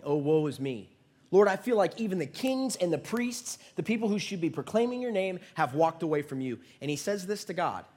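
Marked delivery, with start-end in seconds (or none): 0.0-6.6 hammed-up woe-is-me lament; raised-pitch pleading complaint, lightly acted; self-pitying Elijah. Prophet complaining to God that all have left, self-pitying. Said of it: "He's kinda having a pity party".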